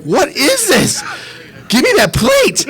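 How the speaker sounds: high, yelled demand for the plate; hammed-up shout at the party; mock outraged yell. Guest yelling at bachelor party crowd over the pile. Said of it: "and I'm like".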